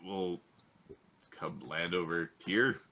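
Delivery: normal talking voice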